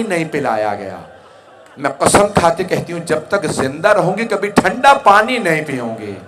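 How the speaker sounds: imitated grieving vows, swelling and falling; tearful lament. Widow vowing to her slain husband, surging lament. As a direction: surge high and loud on each vow, then sink. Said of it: "रो के फरमाया".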